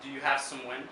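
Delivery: measured poetry reading with long pauses; poem recital. Acted. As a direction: read it as verse, phrase by phrase. Reads own poem aloud.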